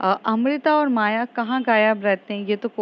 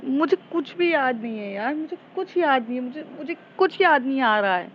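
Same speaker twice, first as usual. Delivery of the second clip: confused and upset; 4 semitones higher than usual. Retold or imitated. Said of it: "Jessica कहती है".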